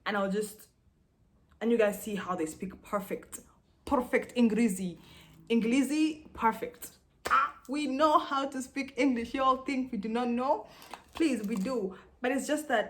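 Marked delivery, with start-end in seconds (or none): 3.9-12.9 loud, pitched-up protest; indignant insistence. Real, not acted. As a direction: insist loudly, higher than usual. Indignantly insisting they speak English.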